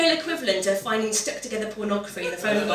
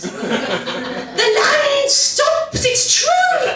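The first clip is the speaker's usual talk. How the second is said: much higher, louder, very slow cry of wonder; amazed Midlander; 6 dB louder, much slower than usual. Retold or imitated. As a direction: gasp it out like seeing the sea for the first time. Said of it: "Midlanders pointing at the shoreline".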